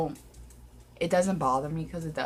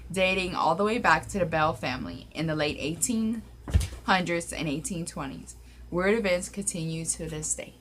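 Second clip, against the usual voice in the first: measured read-aloud narration. Real, not acted. Reading the cave's history to viewers, narration voice. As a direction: read it out like a written account.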